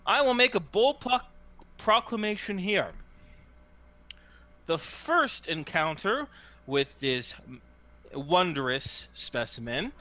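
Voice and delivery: grand showman's announcement, broken by pauses; hawker's proclamation. Acted. Hawker presents the toad to the crowd, grand showman's patter. Game master voices hawker.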